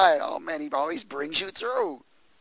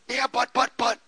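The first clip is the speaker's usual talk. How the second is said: higher stammering protest; whiny excuses; 7 semitones higher than usual. Retold or imitated. A believer objecting to the Lord, high whiny stammer. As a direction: stumble through excuses like a doubter. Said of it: "We all get in that "but".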